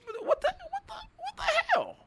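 a stunned, rising what the hell with a laugh; can't believe she said that; incredulous. Real, not acted. Disbelief at the remark.

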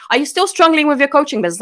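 quick mock spam pitch; rattled-off pitch. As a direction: rush the pitch question. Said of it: "Congratulations on being".

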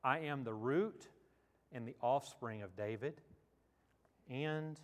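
measured reading with long pauses between phrases; Scripture reading. Acted. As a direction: read the verses solemnly, letting each phrase stand. Reads scripture aloud to congregation.

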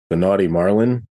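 normal talking voice

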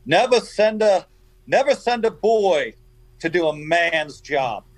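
put-on slow Italian-accented needle, pitched well up; John Benetti's Italian accent. Poker player needling a beaten rival, slow Italian accent. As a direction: draw it out in a mock Italian accent, high then easing down. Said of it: "Benetti had that deep Italian accent".

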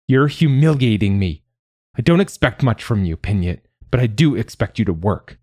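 angry scolding. Acted. Mother berating Pinyat for humiliating her, angry. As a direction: berate the child, easing off toward the end.

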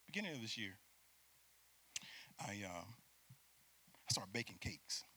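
hushed whispered aside; soft whisper; whispered confession. Real, not acted. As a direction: let them in on a secret. Confiding aside.

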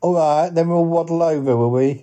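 high cartoon duck voice, chuckling; high-voiced talking duck; jolly duck. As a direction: quip like a duck, then quack. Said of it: "he is a duck".

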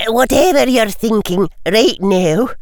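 muffled, hands over face. Acted. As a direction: speak through your hands. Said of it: "in a slightly muffled voice".

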